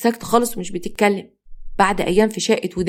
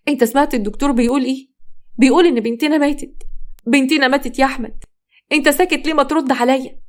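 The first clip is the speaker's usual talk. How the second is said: distraught plea; 5 semitones higher than usual. Acted. Grieving mother pleads with husband.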